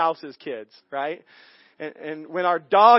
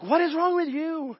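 Holy Spirit's question; 9 semitones higher than usual. Retold or imitated. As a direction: turn the question gently back on him. Holy Spirit speaking to him.

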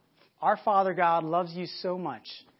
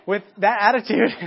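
words spoken through a laugh; chuckling while saying it; amused laugh on the phrase; 7 dB louder than usual. Real, not acted.

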